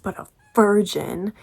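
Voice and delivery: mock disgust on the last word; like a dirty word. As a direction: say VIRGIN as if it were a filthy word. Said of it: "He says it like it's a really dirty word".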